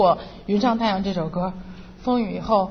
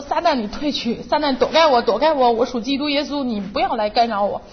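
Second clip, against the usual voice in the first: retold yell at Satan; 2 semitones higher than usual. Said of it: "有的时候我也会嚷".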